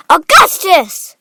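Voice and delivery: loud, drawn-out call of a name. A narrator's reading. Mother calling her son, loud and stretched. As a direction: call out high and slow. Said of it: "called out Missus Gloop".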